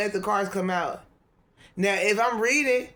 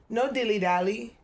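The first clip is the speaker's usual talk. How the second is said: mock British accent; 3 semitones higher than usual. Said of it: "some type of accent".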